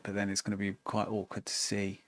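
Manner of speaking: words stretched by a yawn. Real, not acted. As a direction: yawn through the line. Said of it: "I keep yawning".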